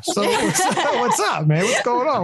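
high-pitched playful challenge; mock squaring up to someone, half laughing; hammed-up needling, pitched high; mock confrontation. Acting out a challenge to a doubter.

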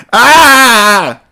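high, loud cry of pain; pained holler. A narrator's reading. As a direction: yelp as the cuffs bite. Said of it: "she hollered".

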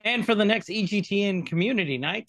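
hammed-up stage announcer. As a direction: introduce the act like an MC. Hyping a community night guest.

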